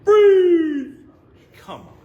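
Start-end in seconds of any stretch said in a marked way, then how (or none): 0.0-0.9 sharp cop yell, way up high; shouted command. Retold or imitated. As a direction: bark it like a movie cop. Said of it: "and he, like".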